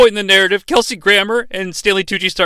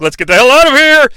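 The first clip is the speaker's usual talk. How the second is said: urgent yell; 5 semitones higher, 5 dB louder, faster than usual. Acted. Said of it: "He's like".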